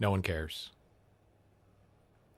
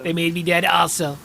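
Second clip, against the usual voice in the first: high, louder Trump echo; mock Trump; 6 semitones higher, 5 dB louder than usual. Streamer mocking the Trump clip, loud high impression. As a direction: parrot the president back, hammed up.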